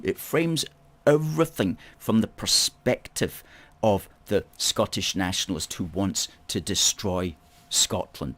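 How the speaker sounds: normal talking voice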